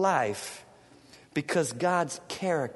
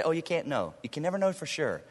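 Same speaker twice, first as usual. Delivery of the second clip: mock doubter; 2 semitones lower, 7 dB quieter, faster than usual. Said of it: "churches that say".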